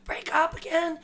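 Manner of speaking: high, quick rambling crackhead imitation; mock crackhead. Retelling the crackhead's instructions, quick high mock voice. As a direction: rattle it off like the wild storyteller. Crackhead telling drug story.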